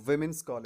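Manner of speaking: विमेन्स as "WIM-ins"; short i opening विमेन्स; correct pronunciation. Shown as a demonstration. Teacher repeats for learners, विमेन्स as "wimins". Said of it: "क्या बोलते हैं".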